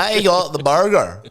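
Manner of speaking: slow, drawn-out parody reviewer; mock food reviewer. Host parodying a local burger reviewer to camera, mock reviewer voice. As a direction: send up a dull burger review. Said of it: "And, and here it's like".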